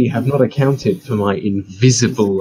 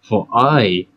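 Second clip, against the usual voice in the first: hammy stage actor. Acted. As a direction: declaim it like a restrained stage villain. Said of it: "put on her best theatrical voice".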